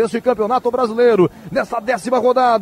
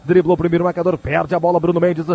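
live play-by-play. Acted.

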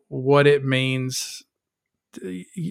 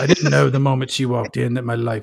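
flat, emotionless noir voiceover; noir detective narration. Pretend. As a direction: narrate like a jaded forties detective. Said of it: "bland narration by Wolverine".

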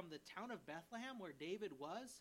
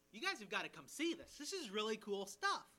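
louder, eager voicing of the officers; excited report; 3 semitones higher, 7 dB louder than usual. Officers telling the Pharisees, eager and amazed. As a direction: sell it like amazed guards telling their bosses.

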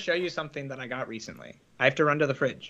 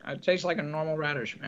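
mouth full; 5 dB quieter than usual. Real, not acted. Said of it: "Can you hear me chewing on this?".

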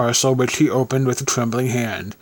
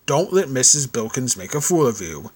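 gruff growl. Acted. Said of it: "growled the veteran".

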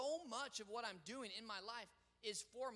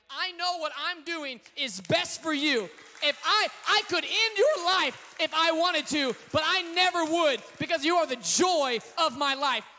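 God's voice; 4 semitones higher, 15 dB louder than usual. Retold or imitated. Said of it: "He's like".

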